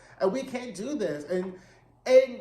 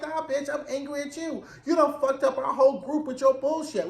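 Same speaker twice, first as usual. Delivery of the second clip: mock scolding friend; 7 semitones higher than usual. C Z scolding Truman, voiced.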